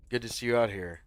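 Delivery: ordinary delivery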